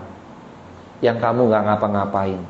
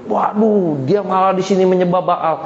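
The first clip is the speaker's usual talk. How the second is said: higher-pitched acted dismay; dismayed exclamation; 5 semitones higher than usual. God sees the people worshipping Baal, dismayed outcry. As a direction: exclaim at what they are doing.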